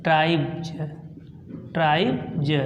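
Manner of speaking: ट्राइब्ज said low with a clear final z sound as "dʒ"; teaching ट्राइब्ज with final ज; ट्राइब्ज ending on ज, not स; modelled pronunciation. Shown as a demonstration. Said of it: "इसलिए हम यहाँ पे उच्चारण करेंगे".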